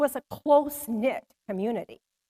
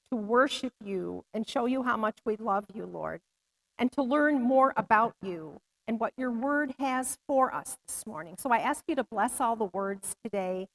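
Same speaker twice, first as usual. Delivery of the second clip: earnest opening prayer, slightly subdued; 4 dB quieter than usual. Real, not acted. Speaker asks God to bless all the words today, prayer. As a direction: pray gently on behalf of the congregation.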